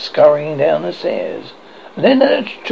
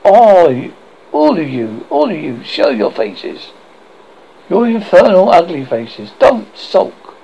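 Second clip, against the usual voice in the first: mock taunting; 3 dB louder than usual. Taunting unseen things in corridor.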